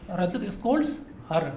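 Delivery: spelling a sentence out for pupils to copy; slow dictation. Shown as a demonstration. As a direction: read it out slowly as if writing on the board. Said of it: "इसी example को मैं दोबारा देख लेता हूँ".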